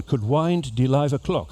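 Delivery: slow, drawn-out Liverpool accent; Scouse accent. Shown as a demonstration. Posing an exam phrase to passengers in slow Scouse accent. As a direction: demonstrate Scouse at a slow pace. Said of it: "the Liverpool accent starts just at".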